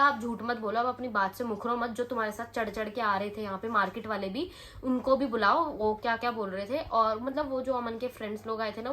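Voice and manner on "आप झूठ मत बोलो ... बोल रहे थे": louder, heated confrontation; angry retort. Retold or imitated. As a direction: call out the lying shopkeeper firmly. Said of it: "मुझे गुस्सा आ गया था". (गुस्से में ज़ोर से डाँटना)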